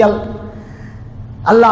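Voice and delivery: usual speaking voice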